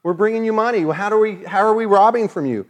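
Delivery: indignant protest. Retold or imitated. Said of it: "they say".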